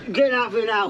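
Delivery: shouting them out of his car; real shout. Real, not acted. Car owner yelling at bailiffs to leave his vehicle, angry shout. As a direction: barks get out of here now.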